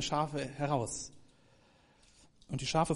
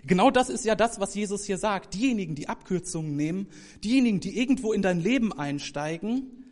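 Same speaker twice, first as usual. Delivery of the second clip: loud, high, pushing the warning hard; emphatic preaching; 6 semitones higher, 7 dB louder than usual. Real, not acted. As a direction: raise the voice against the thieves. Warning about false shepherds. (Prediger warnt laut und eindringlich vor falschen Hirten)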